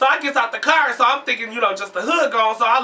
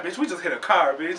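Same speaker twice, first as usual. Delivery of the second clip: calm; 4 semitones lower, 5 dB quieter than usual. Retold or imitated. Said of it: "he calm".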